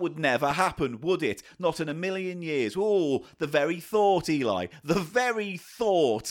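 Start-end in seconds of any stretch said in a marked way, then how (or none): 2.8-6.3 dreamy. Acted. Dreamy wistful musing.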